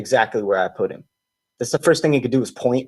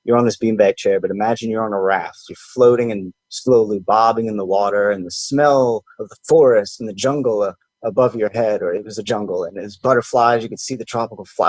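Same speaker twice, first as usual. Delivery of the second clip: retold guided meditation. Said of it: "I'm guiding them through a simple meditation".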